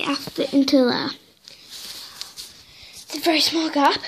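out of breath, puffing between words; breathless after squeezing in. Real, not acted. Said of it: "so I'm out of breath".

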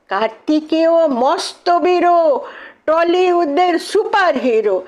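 animated, high-pitched verse recital; excited, rhythmic storytelling in verse; poem recitation. Acted. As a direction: recite the rhymes with lively drama. Recites poem, dramatic part.

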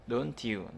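"don't you" linked as don-chew; nối âm ch. Shown as a demonstration. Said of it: "nhớ nối âm nhá". (đọc "don't you" thành đon-chiu)

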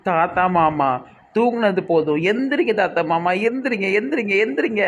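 mild lament rising in pitch; grief beginning. Acted. Niece begs dead grandpa to get up, mild grief. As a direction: plead with him to wake, pitch climbing. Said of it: "இந்த இப்பதான் இவளுக்கு துக்கம் ஆரம்பிக்குது".

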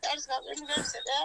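crying as she tells him not to cry; tearful. Real, not acted. Mother soothing her son, tearful.

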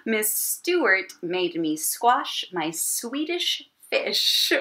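whispered reading. Real, not acted. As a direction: whisper the card to yourself. Reading the twister to herself.

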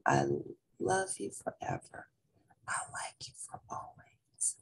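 low, fading to a bare whisper; an old, sick mother too weak to finish; old mother tries to sing to her son, failing; weak, failing song. A narrator's reading. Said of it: "she tried to sing the song".

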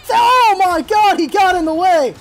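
high, loud, drawn-out "oh my god"; outraged outcry. Real, not acted. Gamer whose hit was blocked, outraged outcry. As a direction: protest loudly at the blunder.

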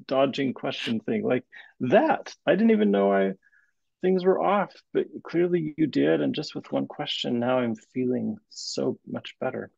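half-laughing protest, pushing her for the answer; mock exasperation. Trainee laughingly begs his supervisor to stop dodging.

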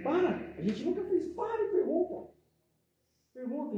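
emphatic urging. Real, not acted. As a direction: urge them to stop and ask.

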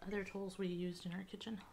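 unvoiced whispered aside. Real, not acted. Whispering an aside to the camera. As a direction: drop to a whisper mid-thought.

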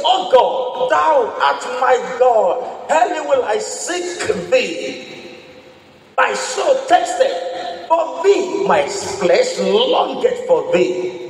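slow, drawn-out reading of scripture; preacher savouring the psalm. Acted. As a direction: read the psalm slowly, lingering on every line.

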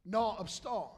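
South Louisiana French. Shown as a demonstration. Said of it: "slang French from South Louisiana".

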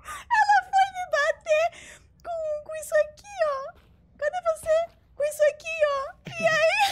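high teary laughing shouts; crying with laughter as you tell it; hysterical laughing. Real, not acted. Hysterical laughing retelling friend's death.

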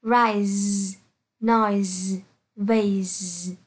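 "rise", "noise", "vase" ending in a buzzed z; teacher's careful "rise", "noise", "vase" with z endings; final z sound. Shown as a demonstration. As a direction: hold a voiced z at the end of "rise", "noise", "vase". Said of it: "S được phát âm là Z".

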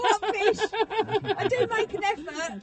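put-on voice.

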